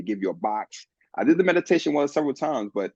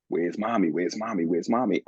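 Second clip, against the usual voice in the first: put-on sad little child; 6 semitones lower than usual. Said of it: "those younger parts of me kinda sad".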